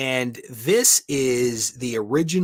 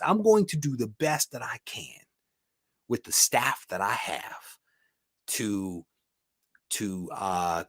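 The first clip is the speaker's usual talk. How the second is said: unvoiced whisper to the viewers; whispered aside; 2 semitones lower, 4 dB quieter than usual. Real, not acted. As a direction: drop to a confiding whisper. Quiet aside about staff limits.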